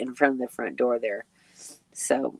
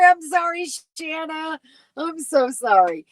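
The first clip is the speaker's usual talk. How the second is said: higher, stretched out on a real yawn; apology through a yawn; 11 semitones higher than usual. Real, not acted. Host yawning while apologizing to viewer Shanna. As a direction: yawn your way through the sorry. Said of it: "yawning is a very contagious thing".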